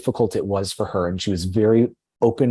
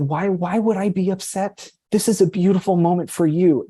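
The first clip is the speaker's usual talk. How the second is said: high, earnest voice of a friend; retold earnest reassurance; 9 semitones higher than usual. Co-teacher tells pregnant friend not to worry, retold earnest reassurance. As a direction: imitate her insisting, pitched well up.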